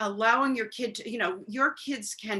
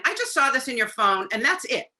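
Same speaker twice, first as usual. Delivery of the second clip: accusing; 3 semitones higher, 4 dB louder than usual. Retold or imitated. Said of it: "very different than".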